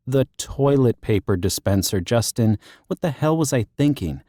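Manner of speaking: a hint of a fed-up woman; frustrated woman. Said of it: "groaning, growling sound".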